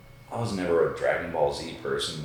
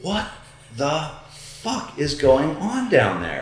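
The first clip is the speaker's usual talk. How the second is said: alarmed disbelief; 7 semitones higher, slower than usual. Retold or imitated. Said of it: "And I'm like".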